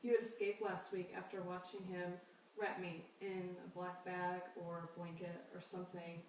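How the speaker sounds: measured reading with long pauses between phrases; poetry reading. Acted. Poet reads dated pieces to an audience, measured poetry reading. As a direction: read it out evenly, letting each line settle.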